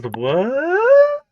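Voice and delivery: high, loud, startled what; baffled what. Retold or imitated. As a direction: squeal it in disbelief. Quoting a baffled reaction.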